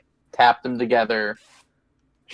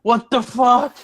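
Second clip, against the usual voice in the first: panicked high voice; 11 semitones higher than usual. Acted. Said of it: "freaking out".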